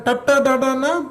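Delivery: ta ta da da na with the tongue curled back; retroflex consonants demo. Shown as a demonstration. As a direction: curl the tongue up for ta ta da da na. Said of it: "The tongue folds".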